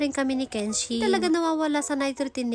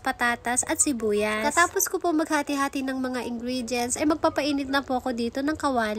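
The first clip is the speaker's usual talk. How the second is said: ordinary talk, nothing marked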